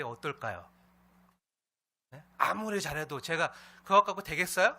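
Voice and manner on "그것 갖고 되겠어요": loud, high mock scolding; pressing reproach. Pastor pretends to badger church members, pressing reproach. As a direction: push it at them as a demanding challenge. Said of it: "하고 다그치면".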